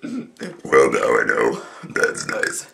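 words pushed out in one long deep burp. Real, not acted. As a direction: burp every word slowly. Talking while burping, burp challenge.

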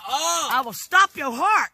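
very slow, loud deliberate threat. Real, not acted. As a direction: drag each word out.

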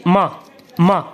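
ما as one open syllable, "ma"; M plus A. Shown as a demonstration. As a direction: blend m straight into a in ما. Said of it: "نفس الشيء".

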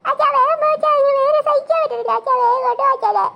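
urgent, whining plea through pain; pained pleading. Acted. Child urging father to drive to hospital, pained pleading. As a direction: beg loudly as if you can't bear it.

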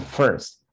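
"first" modelled with an r-coloured "fur" vowel; correct first. Shown as a demonstration. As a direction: say "first" clearly as "furst". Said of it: "And the pronunciation is".

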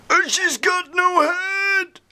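high excited mock gushing; high mock-thrilled squeal; hammed-up excitement. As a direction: ham it up, delighted. Excited comic reaction.

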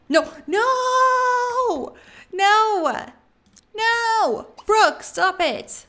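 loud, high, drawn-out screams of no; frantic high scolding shout; alarmed yelling. Real, not acted. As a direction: shout desperately to make them stop. Yelling at game character to stop.

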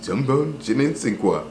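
lightly voiced French accent sliding into a soft low murmur; mock French. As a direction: playfully ham up a French accent, trailing off. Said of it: "it just sounded cooler".

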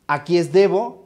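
usual speaking voice

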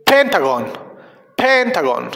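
"pentagon" stressed on PEN, with pauses; repeat-after-me model. Shown as a demonstration. Teacher leading children in practice, "pentagon" stressed on PEN. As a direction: hit the first syllable of "pentagon". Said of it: "Repitan después de mí".

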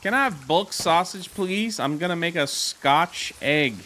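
mock-polite British shopper; slight British accent. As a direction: order with a faint British lilt. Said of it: "like, a slight British accent".

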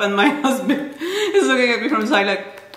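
talking through real laughter; laughing. Real, not acted. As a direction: laugh while telling it. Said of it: "I'm sorry I'm laughing".

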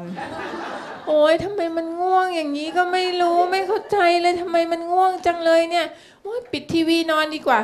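high, very slow drowsy mom voice; sleepy mother. Retold or imitated. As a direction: drag it out like mom fighting sleep. (ลูกสาวเลียนเสียงแม่ง่วงนอน สูงและลากช้า)

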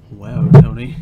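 loud call. Real, not acted. Mock-scolding loud call.

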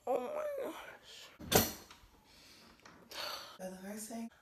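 talking around a retainer; words slurred by a retainer; wearing a retainer. Real, not acted. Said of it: "it's 'cause I have my retainer in".

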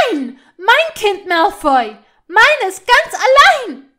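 high, full-force possessive yell; screaming. A narrator's reading. Hermine claiming her child from Malfoy, screaming. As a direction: scream it until the throat burns. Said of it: "schrie Hermine".

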